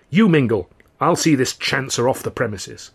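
lightly voiced curt command; brusque waiter. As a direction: bark it as a busy boss. Head waiter orders narrator.

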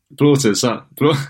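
high, teasing "Blaughter", squashed into one word; mock the careful T in "Blaughter"; mimicked mispronunciation. Co-host copying the language-tape sound, mocking "Blaughter". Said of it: "you sound like a, um, uh, Duolingo tape".

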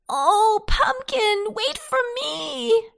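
high, wailing plea; crying out. A narrator's reading. Captive potato begs Pumpkin to wait, crying out high. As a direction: call out high, stretching the last words. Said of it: "he cried".

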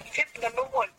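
high, quick playful exclaim; teasing exclamation. A narrator's reading. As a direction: catch him out in a fib with a laugh in the voice. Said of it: "made Jo exclaim".

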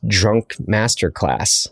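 put-on slow, drawn-out "Drunk Masterclass" like a show title; grand title, slowly. Shown as a demonstration. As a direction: announce "Drunk Masterclass" as a series name, slowly. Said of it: "Maybe that's a whole new series".

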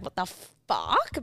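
drawn-out, stunned retold reaction; frozen in shock. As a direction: stretch it out slowly, as if frozen. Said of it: "I was like, froze".

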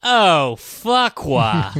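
high, yelped curse; mock outburst. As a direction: yelp it out.

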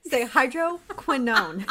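hydroquinone with a clear QUIN, laughing; stress the QUIN. Shown as a demonstration. Co-host coaching the reader, laughing, clear QUIN in hydroquinone. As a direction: hydroquinone with a held n after kwin. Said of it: "It's quin".

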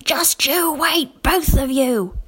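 slow, breathy menacing growl; growled threat. A narrator's reading. The angry man threatening both children, growling. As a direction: threaten them through your teeth. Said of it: "the man who growled".

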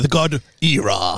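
"Era" intoned slowly as EE-rah; slow, drawn-out "Era" with a long EE; mock pharaoh. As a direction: proclaim "Era" like an ancient god's name. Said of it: "the pharaohs would say that".

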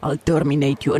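a clumsy imitation of the Austrian accent; bad Arnold accent. Imitating the Terminator to her co-writer, bad Austrian accent. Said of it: "that was a bad accent".

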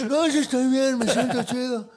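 high, giggling through the words; a friend's gleeful, high reply through laughter; giddy laughing reply. Acted. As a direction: laugh out your happy answer.

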